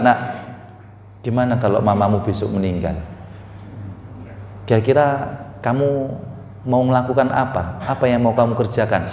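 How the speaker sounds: low, soft, gentle question; relaxed, casual. Acted. Parent casually asking child about death, relaxed. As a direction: ask the child quietly, no drama. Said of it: "Bapak Ibu lagi santai".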